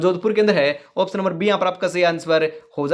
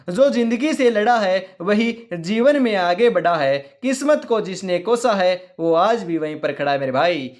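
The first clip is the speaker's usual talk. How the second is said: motivational verse; slower than usual. Acted. Teacher urging students not to trust luck, slow motivational recitation. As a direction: declaim it line by line, drawing words out.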